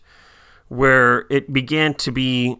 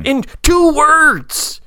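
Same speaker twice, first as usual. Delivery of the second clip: TWO said high, slow and long; stress on TWO; 14 semitones higher, 4 dB louder, much slower than usual. Real, not acted. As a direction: linger on TWO, slowly. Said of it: "emphasis repeated".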